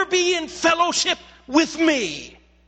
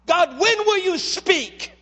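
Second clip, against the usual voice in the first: slow plea; 4 semitones higher, slower than usual. Retold or imitated. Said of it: "he's crying out to God".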